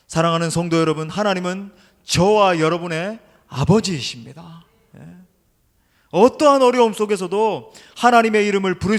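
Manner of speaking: loud, emphatic sermon exhortation; impassioned preaching. Acted. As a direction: project it to the whole congregation.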